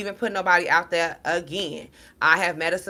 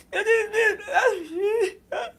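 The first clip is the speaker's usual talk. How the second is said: high-pitched exaggerated bawling; mock crying. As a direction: imitate your own ugly cry, half laughing. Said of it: "Crying like a two dollar bitch".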